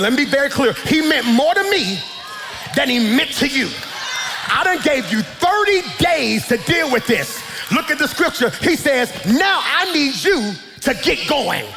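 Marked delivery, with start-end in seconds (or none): 0.9-7.4 stern God. Acted. God voiced rebuking Joshua. 9.2-11.6 commanding. Acted. God commanding Joshua.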